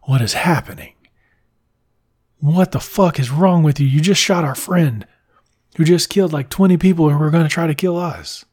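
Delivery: loud exasperated rant at his mentor; mock outrage. Eggsy yelling at Harry after he shoots Whiskey, outraged. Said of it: "And Eggsy's like".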